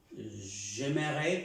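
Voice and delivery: slow careful French "J'aimerais"; French pronunciation. Shown as a demonstration. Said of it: "que es me gustaría". (francés lento y claro)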